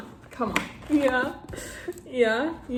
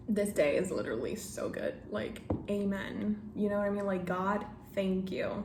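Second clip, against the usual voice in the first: quiet gratitude; 6 dB quieter than usual. Real, not acted. Overcome by a good day.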